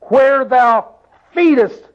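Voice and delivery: high, lingering King James reading; drawn-out scripture reading. Shown as a demonstration. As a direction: lean on each word of the verse. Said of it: "reading scripture slowly".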